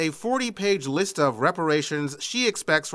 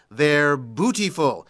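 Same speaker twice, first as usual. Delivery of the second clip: lightly imitated Norfolk accent, drawn out; slower than usual. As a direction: stretch out the catchphrase with a touch of Norfolk. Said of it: "in his rich Norfolk accent".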